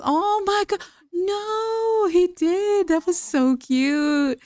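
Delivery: high, squealing coo; gushing delight. Real, not acted. Gamer melting at her Sims' cute moment, gushing delight. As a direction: gush it, drawn out at the end.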